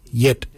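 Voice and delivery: "yet" as the Noongar word for chin; Noongar pronunciation. Shown as a demonstration. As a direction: model "yet" clearly for learners. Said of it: "Yet is spelled".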